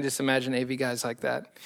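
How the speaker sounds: laughing. Real, not acted. Laughing at his own impression.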